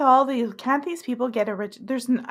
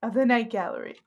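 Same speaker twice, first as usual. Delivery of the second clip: imitating Rod Serling. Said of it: "Rod Serling's like".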